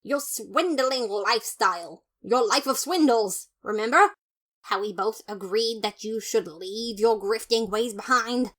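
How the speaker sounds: loud indignant lecture; lecturing brother. Acted. Papyrus lecturing Sans on his swindling, loud and indignant. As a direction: nag him about his grifting.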